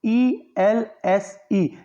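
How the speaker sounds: "ई एल एस ई" बहुत धीरे, अक्षर-अक्षर; "ई एल एस ई" के हर अक्षर को अलग-अलग ठहरकर बोलें; spelling out. Shown as a demonstration. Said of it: "एल्स में तो स की ध्वनि आ रही है". ("ई एल एस ई" की स्पेलिंग धीरे-धीरे बताएँ)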